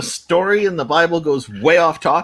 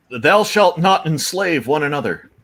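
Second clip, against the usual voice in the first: mock scripture; 3 semitones higher, slower than usual. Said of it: "sounds like it would be in a Bible".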